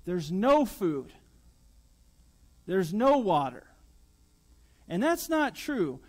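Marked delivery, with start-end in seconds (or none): 0.0-3.7 whiny complaint. Pretend. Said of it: "what do they say?".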